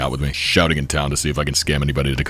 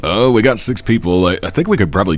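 high, loud excited; 5 semitones higher, 4 dB louder than usual. Real, not acted. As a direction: cheer the news. Party fills up.

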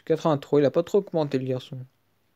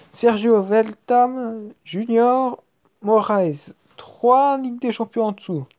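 excited; 5 semitones higher, slower than usual. Real, not acted. Reading big card reveal.

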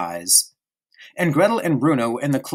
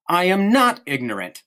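snapped retort; 6 semitones higher than usual. Acted. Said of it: "snapped Bruno".

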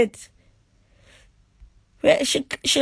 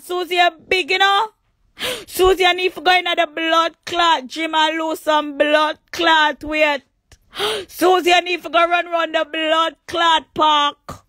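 yelling insults, raised pitch; angry shouting. Real, not acted. Ranting at Susie on her page, shouting.

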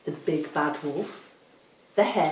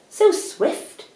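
high, louder exclamation; admiring cry; 13 semitones higher, 8 dB louder than usual. Acted. Vole praises the running hare, high admiring cry. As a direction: cry it out in admiration, pitched well up. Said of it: "cried the Vole".

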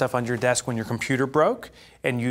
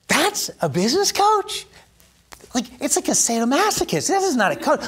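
disbelief; 13 semitones higher than usual. Retold or imitated. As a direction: protest in shocked disbelief. Outraged retelling of coach.

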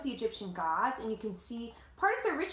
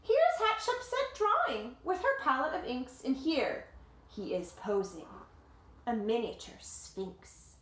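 story narration; 3 semitones higher, slower than usual. A narrator's reading. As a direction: tell it like a picture book to kids. Reading the picture book aloud.

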